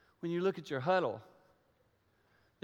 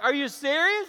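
astonished; 9 semitones higher, 5 dB louder than usual. Retold or imitated. Retold astonished question.

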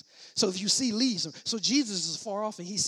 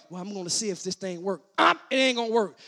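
quicker, dropped out of the preaching shout; doubter's aside; 6 dB louder, faster than usual. Acted. Preacher mimics doubting folks in the congregation, offhand doubter's aside. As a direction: toss it off fast as a mock doubter. Voices a doubter sitting back.

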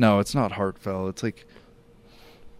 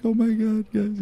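high teary squeak of surprise; retold teary gush; 13 semitones higher than usual. Sister overwhelmed by surprise party, high teary squeak. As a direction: imitate the sister choking up, pitched way up. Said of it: "She's like".

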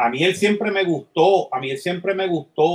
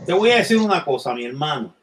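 Al Pacino as devil; 3 semitones lower than usual. Retold or imitated. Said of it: "Al Pacino y dice".

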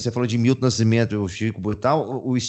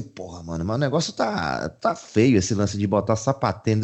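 mock disapproving friend; 6 semitones lower than usual. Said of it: "sabe quando o cara olha e fala assim".

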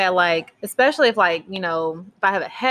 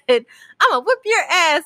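put-on higher, drawn-out little-kid threat; child mimicking parent; 9 semitones higher, 5 dB louder, slower than usual. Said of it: "And Arya said".

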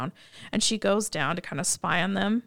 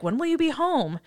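high, fretful questioning like a worried father; mock overprotective dad; lightly hammed-up worried father; fussy dad voice; 8 semitones higher than usual. The speaker fussing over Terry's date.

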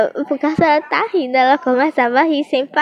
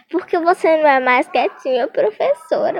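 sweet-talking pupil; 5 semitones higher than usual. Retold or imitated. Kids sweet-talking the teacher.

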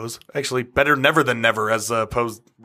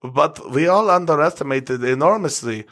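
put-on German accent; 2 semitones higher than usual. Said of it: "I just want to do the accent again".

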